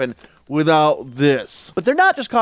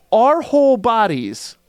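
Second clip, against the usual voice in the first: whisper; 6 semitones higher, 4 dB louder, slower than usual. Acted. Characters describe their dread.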